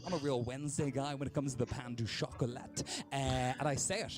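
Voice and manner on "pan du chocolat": put-on lightly French-accented pastry order; a touch of affected French. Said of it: "I put on the accent".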